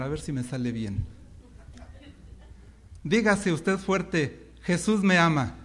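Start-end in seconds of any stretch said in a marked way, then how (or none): 3.0-5.6 imitating pastor Valedón. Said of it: "lo voy a tratar de imitar".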